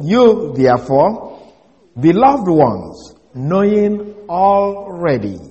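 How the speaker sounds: slow, deliberate, each word set apart; slow reading. Shown as a demonstration. Preacher repeating the Greek translation for the congregation, slow and deliberate. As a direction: read it slowly, leaning on beloved. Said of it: "exact way it reads in the Greek".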